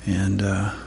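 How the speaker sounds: quiet, unforced close of a prayer; closing prayer. Real, not acted. Preacher asking in Jesus' name before teaching, quiet prayer. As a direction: finish praying softly and simply.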